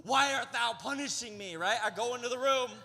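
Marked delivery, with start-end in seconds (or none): 0.0-1.6 mock lament. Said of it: "I'm just furious".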